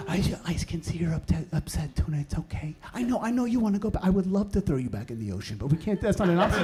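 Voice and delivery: soft, placating parent voice; forced niceness. Acted. Parent calming flopping toddler in public, forcedly nice. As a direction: soothe through strained, hushed patience. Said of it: "you gotta be nice to your tuna".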